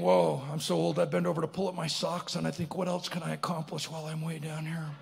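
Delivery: low, soft grumble to himself; a touch of old-man weariness, kept low; weary inner thought. Acted. Squished man thinking how old he is, mock weary.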